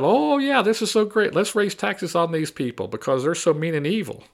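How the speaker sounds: sarcastic impression of a thrilled Democrat voter; mock gushing Democrat. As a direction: parody a naive cheering Democrat. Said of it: "And then you as a Democrat".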